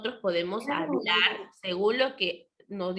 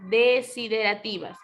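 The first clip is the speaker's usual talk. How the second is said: "desiderativas" spoken deliberately, with "desi" set apart and stressed; careful enunciation; 3 dB louder than usual. Shown as a demonstration. Teacher asks pupils to listen well, enunciating "desiderativas" carefully. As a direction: lean on the first syllables of "desiderativas". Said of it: "Escucha muy bien".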